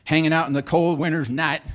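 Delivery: slipping lightly into a southern accent; folksy southern accent creeping in. Real, not acted. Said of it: "I flipped into a southern accent".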